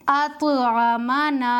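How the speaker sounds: अतअमना said slowly, the त्वा after अत bouncing off; qalqala on अतअमना. Shown as a demonstration. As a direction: let the त्वा in अतअमना rebound like a ball. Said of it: "जैसे गेंद जमीन पर लगकर फौरन हट जाती है".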